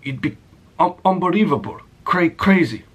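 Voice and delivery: put-on a half-faded Indian accent, quick and buttering up; a light Indian accent, boss flattering his employee; the speaker's Indian accent. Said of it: "I can't even do the accent anymore".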